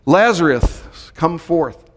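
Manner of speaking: a quoted summons, lightly projected. Retold or imitated. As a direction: call him forth, stretching the name. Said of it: "called in a loud voice".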